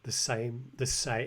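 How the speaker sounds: "same" with its vowel opened toward "sime"; imitated pronunciation. Teacher showing how the learner pronounces the word, imitated pronunciation. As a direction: copy his "same", vowel gliding from "ah" to "ee". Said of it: "the way he pronounces bar and table".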